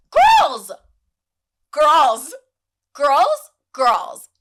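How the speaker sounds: high, loud scolding call. Acted. Host shouting at the fighting pets to stop. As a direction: yell to break up the fight.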